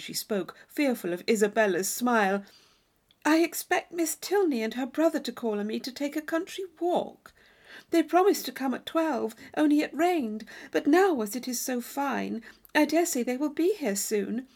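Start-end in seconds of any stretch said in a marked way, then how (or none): 3.2-14.5 put-on higher girl's voice, hopeful; shy girl hoping friends come; Catherine explaining. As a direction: gently explain the plan.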